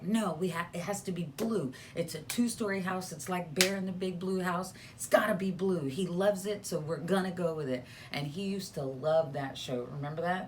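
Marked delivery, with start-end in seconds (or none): 0.0-7.8 higher-pitched retelling of putting the foot down; mildly emphatic quote of oneself; retold insistence. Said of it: "and I was like".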